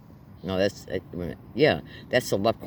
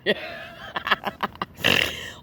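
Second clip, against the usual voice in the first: breathy laugh; 5 semitones higher, 3 dB quieter than usual. Real, not acted. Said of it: "I don't know why I'm laughing".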